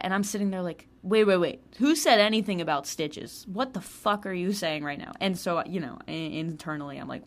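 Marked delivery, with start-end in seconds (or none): 1.0-5.1 louder, alarmed double-take; alarmed wait wait. Retold or imitated. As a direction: stop her short, suddenly alarmed. Reacting to news of stitches.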